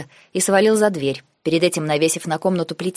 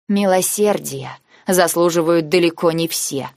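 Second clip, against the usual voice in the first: usual speaking voice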